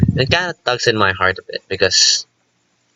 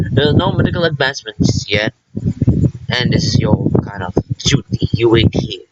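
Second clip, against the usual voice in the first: mocking party line. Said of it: "they give you the stupid party lines, fake ass lines".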